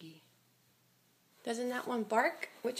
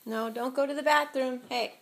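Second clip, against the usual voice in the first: firm scolding; 3 semitones higher, 6 dB louder than usual. Real, not acted. Parent scolding toddler at bathroom.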